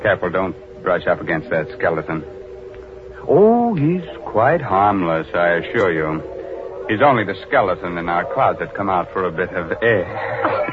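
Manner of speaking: put-on lightly sinister old radio host; vintage horror narrator. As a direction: relish each spooky word. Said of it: "This is Raymond, your host".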